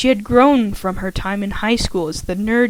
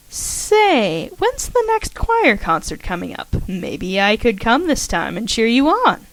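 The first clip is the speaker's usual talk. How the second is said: a hint of a chirpy friend asking casually; Karen the roommate. Karen voiced in story.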